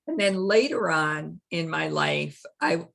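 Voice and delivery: holding back tears, throat tight; choked up. Real, not acted. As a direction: voice catching with emotion. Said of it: "I don't know why I'm choking up".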